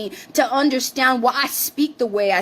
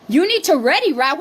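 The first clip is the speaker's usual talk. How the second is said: mimicking the comment; 3 semitones higher, 3 dB louder than usual. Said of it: "I said".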